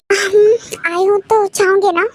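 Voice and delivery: holding back tears while answering; teary. Acted. Sad farewell before leaving. (रोते हुए)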